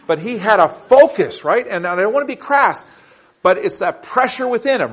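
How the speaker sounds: impassioned preacher driving a point home; emphatic preaching. Real, not acted. Preaches with rising force.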